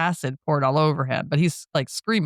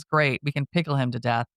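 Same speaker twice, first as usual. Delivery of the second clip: dry retold deadpan; understated, unimpressed quote; 3 semitones lower than usual. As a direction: deliver it with no excitement at all. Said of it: "Paul deadpans".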